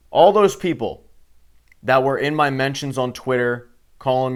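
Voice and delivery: loud call-out to the doubters. Real, not acted. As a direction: call out the critics. Ranting at critics.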